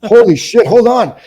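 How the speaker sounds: high, loud starstruck outburst; acted amazement. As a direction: imitate a thrilled fan yelling. Kid recognizing the actor, retold.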